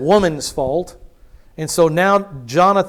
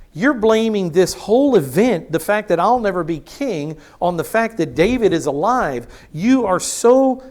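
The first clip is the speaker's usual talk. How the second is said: indignant rebuke; 3 semitones higher than usual. Acted. Jonathan confronts his father Saul, indignant and raised. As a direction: call out a stubborn father.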